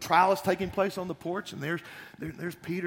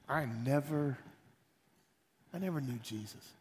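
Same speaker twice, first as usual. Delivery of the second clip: much softer, falling away; broken denial; 2 semitones lower, 6 dB quieter than usual. Acted. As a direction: whisper a defeated lie. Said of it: "and then he says".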